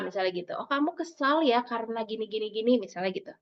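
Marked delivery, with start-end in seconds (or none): 0.6-2.7 put-on calm a child's upset; reassuring parent tone; soothing voice. Shown as a demonstration. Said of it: "Ngomongnya dengan suara menenangkan".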